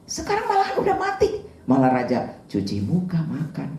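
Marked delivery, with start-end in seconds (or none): 0.0-1.4 high, bewildered exclamation; a servant voicing confusion to his king; puzzled bodyguard. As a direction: sound baffled by the king's behaviour. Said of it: "Pengawalnya sampai bingung".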